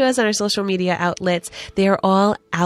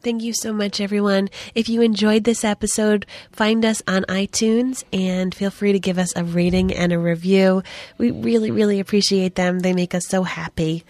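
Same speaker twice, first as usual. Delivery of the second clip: hoarse, under-the-weather voice; talking through a cold; sick voice. Real, not acted. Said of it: "putting up with my sick voice".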